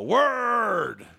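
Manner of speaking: loud, high answering shout; crowd shout. Retold or imitated. Congregation answering their pastor, loud group shout. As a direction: bellow it back like a whole congregation. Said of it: "And everybody will go".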